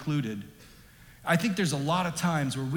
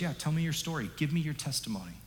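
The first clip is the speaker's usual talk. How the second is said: gentle invitation; 5 dB quieter, faster than usual. Acted. Jesus voiced gently to woman.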